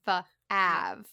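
"Fa-av" split into slow sounds, long flat "a"; "Fa-av" for five, with an Appalachian "ah" vowel; sounded out. Shown as a demonstration. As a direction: sound out "Fa-av" like a child spelling phonetically. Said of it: "I sounded it out phonetically".

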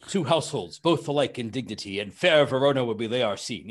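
lightly voiced grand, fancy American Shakespeare; a hint of an old-school stately recitation; Orson Welles style. Quoting stage style to the host, lightly grand Shakespeare. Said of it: "the Orson Welles".

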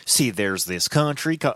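lightly put-on southern accent, slow; a hint of southern drawl, mocking; weird southern accent. Host mocking the vice president's explainer, weird southern accent. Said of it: "I just gave her a weird southern accent".

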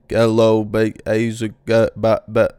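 mock computer voice, halting and stuttered; choppy robot voice. Podcaster mocks computer voices as choppy robot speech. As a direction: play a glitchy speech machine stuck on syllables. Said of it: "it's very choppy, robotic".

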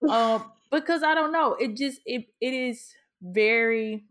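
real tears catching in the throat; starting to cry. Real, not acted. Telling her cohost about a supportive friend, close to tears. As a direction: voice breaking as tears come. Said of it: "and now I'm crying".

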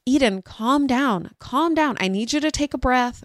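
mildly panicked parent, retold; freaking out. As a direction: plead for calm while rattled. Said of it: "so I'm freaking out".

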